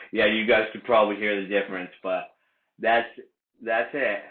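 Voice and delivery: talking with a retainer in; speaking around a mouthpiece; mouth full. Shown as a demonstration. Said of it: "you sound like this".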